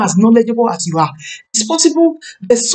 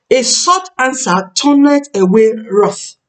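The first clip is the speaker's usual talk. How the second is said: slow scripture quote; 2 semitones higher, slower than usual. Shown as a demonstration.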